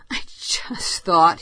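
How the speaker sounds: slow, breathless whisper. A narrator's reading. Machin on the sand, slow whisper. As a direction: hush it out, slowly.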